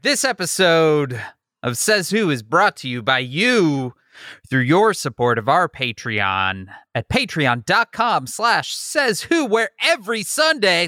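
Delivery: rising ad-read energy; getting into it. Shown as a demonstration. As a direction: warm up into a peppy promo. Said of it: "I'm getting into it now".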